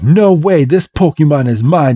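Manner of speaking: mildly acted defiance; possessive refusal. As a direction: snap back at a rival. Acted quarrel over Pokemon.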